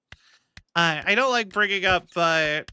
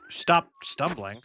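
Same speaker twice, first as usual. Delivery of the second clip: usual speaking voice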